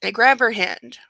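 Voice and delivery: steady, even audiobook read; story narration. A narrator's reading. Reads the novel aloud.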